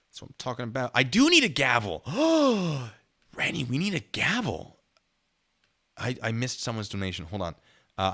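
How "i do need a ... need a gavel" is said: excited. Real, not acted. Excited about gavel idea.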